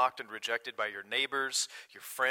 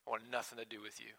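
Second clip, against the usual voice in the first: hushed rejection; 11 dB quieter, faster than usual. Retold or imitated. Preacher voices his old resentment.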